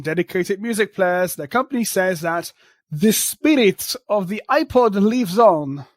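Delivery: thick mock Russian accent, news read; hammy Russian accent newsreader. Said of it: "mock Russian accent".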